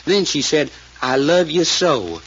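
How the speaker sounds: slow, lightly voiced sweet pleading; imitating a pleading voice. Man imitating his frightened cousin's plea to her sister, slow and mildly pleading. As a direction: soften it into a trembling plea, slowly. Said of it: "sweet things in a kinda pleading voice".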